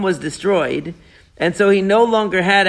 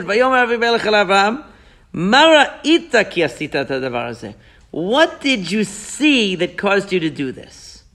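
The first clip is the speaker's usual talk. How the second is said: softened tone. Retold or imitated. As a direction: ease off from aggression into a vulnerable question. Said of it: "he changed his tone for a second".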